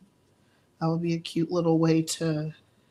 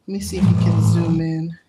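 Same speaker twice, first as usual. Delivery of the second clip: calling out; 9 dB louder than usual. Real, not acted. Asking camera person to zoom.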